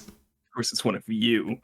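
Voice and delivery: breathy mock contempt; whispered sneer. Co-host imitating streamer muttering about him. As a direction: hiss it under your breath. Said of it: "continues streamer imitation".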